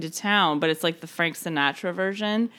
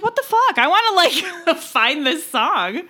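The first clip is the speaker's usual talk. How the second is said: excited; 7 semitones higher than usual. Retold or imitated. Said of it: "I was like".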